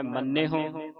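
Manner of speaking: ਮੰਨਿਓ with a firm doubled n; pronounced tightly. Shown as a demonstration. Teacher models tight pronunciation, ਮੰਨਿਓ with held nn. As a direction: lean on the nn in ਮੰਨਿਓ. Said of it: "ਕਸ ਕੇ ਬੋਲਣਾ".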